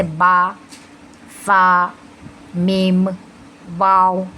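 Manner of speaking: "बा, फा, मीम, वाव" each formed on the lips; separate, held letters "फा", "वाव". Shown as a demonstration. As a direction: articulate "बा" and "मीम" firmly with the lips. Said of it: "हम होठों से अदा करते हैं".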